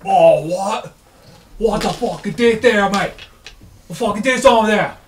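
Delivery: high, loud, alarmed British lout; hammed-up startled yob; intimidated barbarian. Barbarians intimidated by the voice, startled shouting. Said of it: "some dudes who were intimidated".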